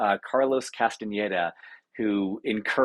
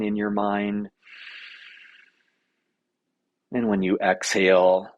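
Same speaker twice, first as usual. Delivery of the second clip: unhurried breath-labeling guidance, long pauses; lightly held meditation guide voice; guided meditation. Acted. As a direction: lead them through breathing, leaving space between phrases.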